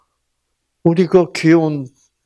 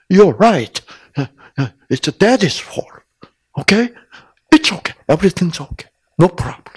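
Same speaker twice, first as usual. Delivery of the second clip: soothing; 5 semitones higher, much slower than usual. Retold or imitated. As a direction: comfort her gently. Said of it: "막 달랬어요".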